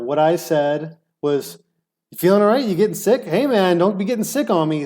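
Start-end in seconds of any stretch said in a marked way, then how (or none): 2.1-4.9 light concern. Retold or imitated. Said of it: "That's what I said".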